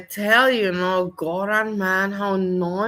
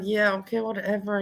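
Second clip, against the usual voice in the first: dismissive whatever; 5 dB quieter than usual. Retold or imitated. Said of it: "I'm like".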